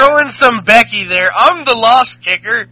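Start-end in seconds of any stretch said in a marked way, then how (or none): 1.3-2.7 loud mock-Irish boast, pitched up; half-successful Irish wrestler impression; bad Irish accent. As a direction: put on a clumsy Irish accent. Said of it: "not to do any Irish accent".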